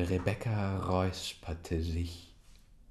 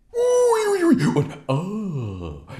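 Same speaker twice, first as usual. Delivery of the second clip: high excited cackling; 13 semitones higher, 11 dB louder, much slower than usual. Acted. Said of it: "machten die anderen Onkel".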